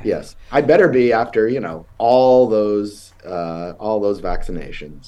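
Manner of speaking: stuffy sniffly cold voice. Real, not acted. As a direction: talk through the sniffles. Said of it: "you got a little sniffles".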